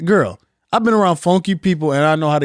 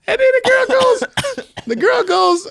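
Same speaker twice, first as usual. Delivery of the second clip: very high squeak. Real, not acted. Telling the story to a friend in a sudden squeak. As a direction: jump way up into a squeak.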